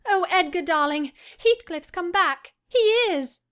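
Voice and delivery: overjoyed. Acted. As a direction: burst out with the wonderful news. Joyful news to husband.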